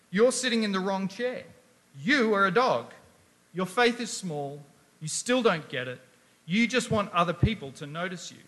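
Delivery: loud, stern scolding voice; harsh rebuke. Retold or imitated. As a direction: tell them off without mercy. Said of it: "speaking to you like that".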